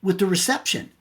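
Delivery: high-pitched imitation of a wife protesting; wife explaining. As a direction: mimic a wife defending herself over a bad line. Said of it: "She goes".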